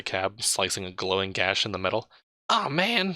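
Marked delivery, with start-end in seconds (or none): 2.5-3.1 high, loud whine; whining. Acted. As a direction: whine like a put-upon driver. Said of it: "whines the driver".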